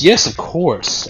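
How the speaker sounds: slow, high, elegant Victorian lady; a touch of stagey period drama. Acted. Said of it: "insert elegant, like, Victorian lady voice here".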